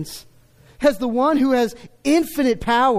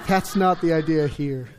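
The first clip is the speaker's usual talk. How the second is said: chuckling; 6 semitones lower than usual. Real, not acted. Repeats it, still laughing.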